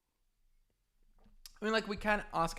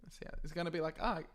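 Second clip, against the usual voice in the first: ordinary talk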